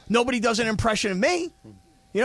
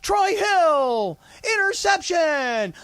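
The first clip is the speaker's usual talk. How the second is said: J B call; 5 semitones higher, slower than usual. Retold or imitated. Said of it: "And I hear that".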